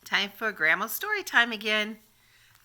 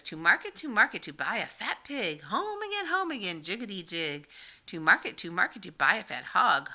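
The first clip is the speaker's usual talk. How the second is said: put-on sing-song read-aloud for little kids; reading nursery rhymes. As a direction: read it like grandma at story time. Reads rhyme to children.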